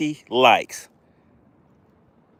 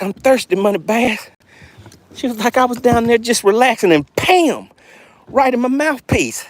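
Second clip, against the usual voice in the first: fish voice; 6 semitones higher than usual. Acted. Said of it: "She's like".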